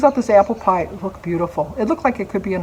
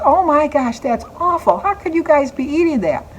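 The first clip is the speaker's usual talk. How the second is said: retold shocked disgust; 7 semitones higher than usual. Susie tastes her salty pie.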